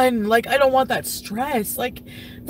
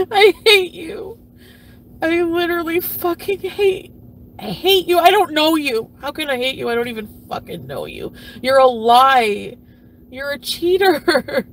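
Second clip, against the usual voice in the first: raw anger; 3 semitones higher, 4 dB louder than usual. Real, not acted. At her cheating husband, a hurt furious outburst. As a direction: shout it at him, wounded.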